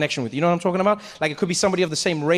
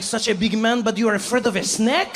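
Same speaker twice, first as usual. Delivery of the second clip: higher, teasing French voice; mocking French accent; 4 semitones higher than usual. The French dad teases the big man, higher mocking French accent. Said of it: "He's like".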